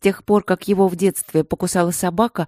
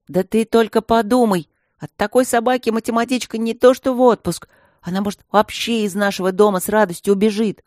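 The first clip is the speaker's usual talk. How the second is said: eager excitement; 5 semitones higher, 4 dB louder than usual. Acted. Zhenka pushing his plan eagerly.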